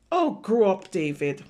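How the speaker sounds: annoyed big brother snapping; brother's retort. Acted. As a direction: tell him off like a fed-up older brother. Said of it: "And his brother said".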